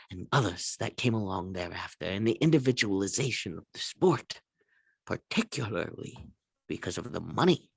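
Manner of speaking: mock-serious pundit, read it like a script; a hint of Stephen A lecturing on air; Stephen A dramatic reading. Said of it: "I'm Stephen A".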